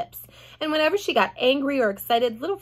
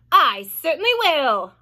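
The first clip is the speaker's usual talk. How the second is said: louder curt reply; mild mock snap; snapped; 5 semitones higher, 7 dB louder than usual. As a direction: snap back coldly. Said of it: "Aunt Spiker snapped".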